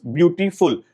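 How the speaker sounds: ब्यूटीफुल in beats, byu-ti-ful; syllable by syllable. Shown as a demonstration. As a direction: sound out ब्यूटीफुल in separate parts. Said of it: "जिनमें एक से ज्यादा syllables".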